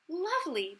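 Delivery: high, pleased exclamation; delighted exclaim. Acted. Fairy godmother pleased with her magic, delighted. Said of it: "the fairy godmother exclaimed".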